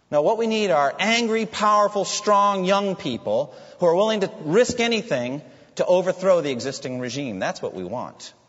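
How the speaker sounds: loud, high rabble-rousing that settles at the end; rallying dictator. Acted. Revolutionary dictator demands people to overthrow the regime, forceful and rousing. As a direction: imitate a revolutionary demanding recruits.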